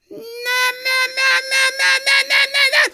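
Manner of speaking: very high, loud goose squawk repeated; goose honking. A narrator's reading. Goose tasting mud ice cream, frantic honking. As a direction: honk like a disgusted goose.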